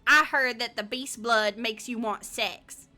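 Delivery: playful, hammed-up Southern accent. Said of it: "wanna read that in a southern accent".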